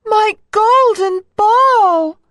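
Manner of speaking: high, drawn-out princess wail; a dismayed cartoon princess crying out. A narrator's reading. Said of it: "cried the princess".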